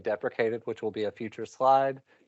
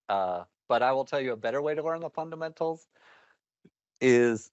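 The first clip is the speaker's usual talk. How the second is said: talking through hiccups; speech broken by hiccups. Real, not acted. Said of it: "sorry, I'm hiccuping".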